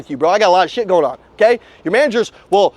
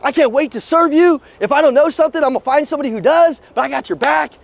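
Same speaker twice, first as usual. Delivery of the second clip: higher, bubbly new-guy pitch to a customer; eager new salesman; 5 semitones higher than usual. Retold or imitated. Eager rookie promises a customer help, higher and excited. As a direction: gush to her like you can't wait to help. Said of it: "I'm like".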